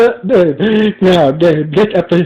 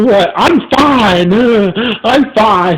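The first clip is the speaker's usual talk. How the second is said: a touch of angry, slow, higher insistence; 4 semitones higher, slower than usual. Acted. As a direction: insist you're fine through mild anger. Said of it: "very angry".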